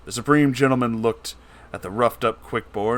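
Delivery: usual speaking voice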